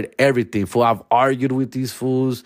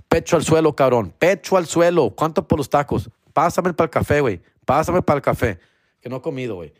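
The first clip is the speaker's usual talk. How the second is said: lightly voiced Spanish-talking LA cop; crooked cop; 4 semitones higher than usual. Imagining himself as a dirty cop in LA, lightly acted crooked cop. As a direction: play at ordering people around in Spanish. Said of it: "That would be that guy".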